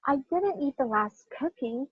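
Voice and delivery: softly, "cookie" picked out at the end; stress on COOKIE. Shown as a demonstration. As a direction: hold back until "cookie", then stress it. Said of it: "Let me try this again".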